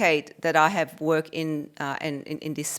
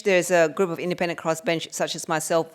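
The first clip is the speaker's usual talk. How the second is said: ordinary talk, nothing marked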